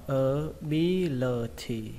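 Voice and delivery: ABILITY broken into slow separate syllables. Shown as a demonstration. Teacher introducing a new word to learners, slow syllables. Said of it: "các bạn đọc là".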